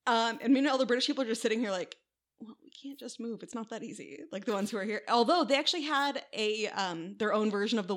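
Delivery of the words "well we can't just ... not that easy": much softer, mild quoted grumble; quiet mock helplessness; mock meek protest. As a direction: voice a small, put-upon aside. British people quoted sitting there, measured much softer.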